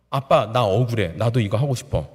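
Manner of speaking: mild tearful plea held in check; holding back tears. Retold or imitated. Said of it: "화가 나는데 꾹 참고 눈물을 머금고서".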